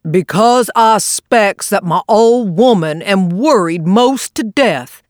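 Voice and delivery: a touch of gloom, slowed down; mournful. Acted. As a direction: sigh it out like a worried husband. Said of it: "in a mournful voice".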